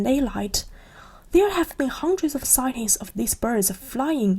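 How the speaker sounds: evening news read; newsreader. Acted. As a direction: read it like a TV anchor. News report on television.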